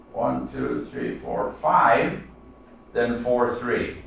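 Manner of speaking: counting out the rhythm of the line; counting the beats. Shown as a demonstration. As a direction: count the syllables out one by one, beat by beat. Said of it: "the third line is three, then".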